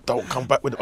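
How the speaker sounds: lightly put-on Wolverhampton accent; a hint of Black Country accent, a musician. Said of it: "the musician with his Wolverhampton accent".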